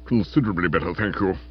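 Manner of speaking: wounded gentleman, lightly voiced; brave weak voice. A narrator's reading. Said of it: "he responded bravely".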